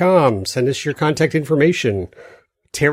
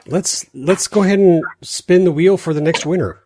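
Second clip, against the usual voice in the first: hyped giveaway announcement; 4 semitones higher than usual. Real, not acted. Live giveaway wheel spin.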